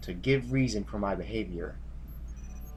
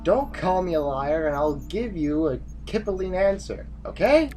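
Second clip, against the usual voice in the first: exasperated retort; 6 semitones higher than usual. Acted. General quarrels with needling subordinate.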